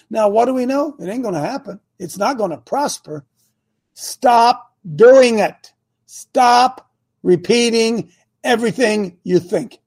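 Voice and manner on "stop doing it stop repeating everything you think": very slow, deliberate order; emphatic command. Real, not acted. Preacher telling listeners to stop repeating thoughts, emphatic command. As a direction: space the words out and land each one.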